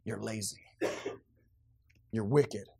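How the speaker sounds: hushed whispered verdict; whispered "You're lazy.". Real, not acted. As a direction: drop to a whisper for the blow. Whispered verdict after loud rebuke.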